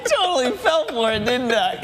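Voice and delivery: anchor stifling giggles. Real, not acted. Anchor caught by prank name.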